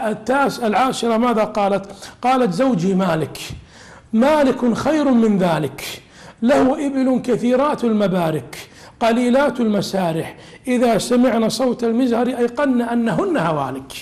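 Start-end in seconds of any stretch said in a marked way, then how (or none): 2.5-3.4 measured, drawn-out reading of classical text; slow recitation. Acted. Recites hadith text slowly. 4.1-6.0 مالك خير من ذلك drawn out slowly, each word weighed; slow recitation. Acted. Recites text, then explains it. 6.4-13.9 measured, drawn-out reading of classical text; slow recitation. Acted. Recites hadith text slowly.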